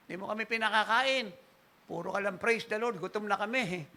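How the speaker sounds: a hint of a bitter wife; complaining wife. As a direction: gripe about going hungry.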